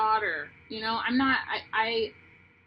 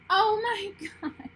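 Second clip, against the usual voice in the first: higher, slow gasp of joy; overcome with emotion; 10 semitones higher, 4 dB louder, slower than usual. Real, not acted. Reader gasping at the card she just turned over. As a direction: let the card's beauty catch your breath. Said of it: "I could cry".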